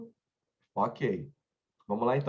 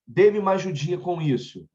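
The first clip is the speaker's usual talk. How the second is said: requesting; 4 semitones higher, 4 dB louder than usual. Shown as a demonstration. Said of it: "É um desejo, é um pedido".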